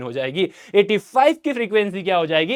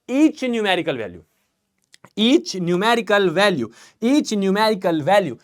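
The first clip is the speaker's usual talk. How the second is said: each numerical value drawn out slowly, word by word; slow, deliberate teaching; much slower than usual. Shown as a demonstration. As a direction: spell it out slowly so the class can write it down. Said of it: "teacher repeating definition". (धीरे-धीरे, हर शब्द पर ज़ोर देकर)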